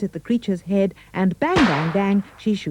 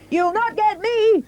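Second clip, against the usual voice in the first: very high defiant squeak; defiant piggy; 3 dB louder than usual. A narrator's reading. Third pig defying the wolf, high and cocky. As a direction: cry it out like a cocky little pig. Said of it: "the piggy cried".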